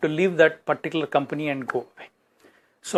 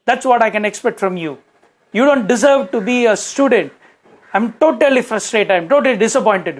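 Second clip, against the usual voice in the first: a raised, higher scolding father's voice; 5 semitones higher, 3 dB louder than usual. Retold or imitated. Father scolding his daughter for her studies, raised and reproachful. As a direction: berate her like a disappointed father.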